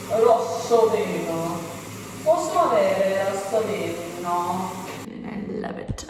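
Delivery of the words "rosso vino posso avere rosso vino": slow, careful Italian ordering wine; mock Italian. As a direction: put on Italian like a waiter's guest.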